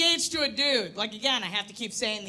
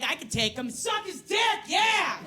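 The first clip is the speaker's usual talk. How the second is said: mock aggressive shout; 5 semitones higher than usual. Sizing up a dude aggressively.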